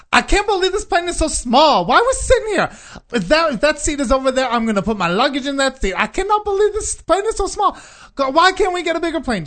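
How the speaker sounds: very high, loud camp whine; hammed-up fussing at a high pitch; camp complaining passenger. Gay passenger griping about the small plane, hammed-up camp complaint. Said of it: "this guy just was very, very gay".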